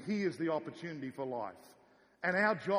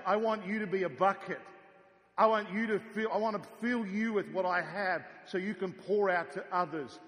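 rousing call; 3 semitones higher, 5 dB louder than usual. Acted. God's call voiced in sermon.

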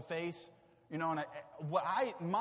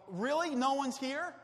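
high, disbelieving; incredulous Jesus; 6 semitones higher than usual. Pretend. Risen Jesus finding no one waiting, high incredulous. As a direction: ask it in disbelief.

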